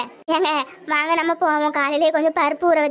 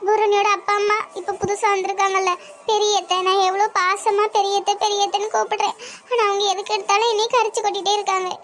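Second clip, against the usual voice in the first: hurt, near tears, voice a little raised; tearful complaint; 2 semitones higher than usual. Acted. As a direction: pour out her hurt as if close to crying. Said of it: "எதுக்கு அழுகுற?". (அழுகையுடன் குறைபடுதல்)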